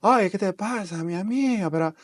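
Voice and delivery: imitating the singing lilt of Peruvian Amazon Spanish; sing-song Amazon accent. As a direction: lilt it like a song, quick and high, Amazon style. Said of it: "Like, kind of, like, singing".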